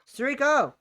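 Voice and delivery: loud, high shout of the writer's name; mock angry yell. Yelling at the writer again.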